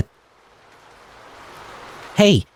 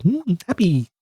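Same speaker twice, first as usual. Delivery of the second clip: mock blank voice; 7 semitones higher, 5 dB quieter than usual. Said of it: "he's like".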